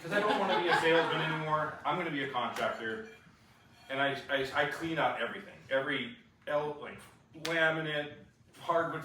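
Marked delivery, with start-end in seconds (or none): 0.0-3.1 firm declaration. Retold or imitated. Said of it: "I just said".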